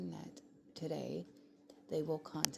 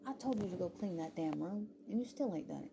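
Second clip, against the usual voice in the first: louder, exasperated telling-off; retold parental nagging, pitched up; scolding parent, quoted; 4 semitones higher, 4 dB louder than usual. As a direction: scold a child over a chore, without screaming. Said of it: "I'll say something like that".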